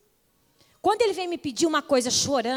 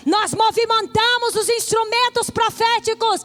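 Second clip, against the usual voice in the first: building from firm to loud, higher preaching; preaching at full force; 8 semitones higher, 5 dB louder than usual. Acted. Preacher rousing the church about being positioned in Christ, climbing to full force. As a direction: preach it rising, louder with each repetition.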